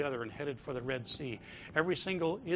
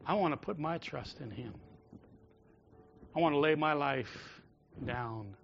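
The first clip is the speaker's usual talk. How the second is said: softer, hushed confession of trust; quiet prayer; 3 semitones lower, 8 dB quieter than usual. Retold or imitated. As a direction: speak it as a soft personal vow. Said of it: "that says".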